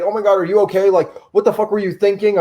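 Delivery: mock panicked scolding at normal volume; retold panic. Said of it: "she's panicking for me".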